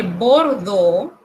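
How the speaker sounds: Bordeaux said as French bor-DOH; French pronunciation. Shown as a demonstration. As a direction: Bordeaux with the eau as a plain O. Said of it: "esto se pronuncia O".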